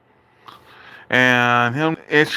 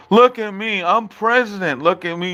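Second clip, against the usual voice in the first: mocking boast; 4 semitones higher than usual. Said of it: "You said".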